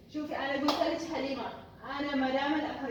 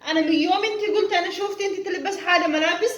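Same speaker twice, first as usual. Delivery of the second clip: loud telling-off; scolding; 8 dB louder than usual. Acted. Madam scolds the maid about her clothes, loud and cross.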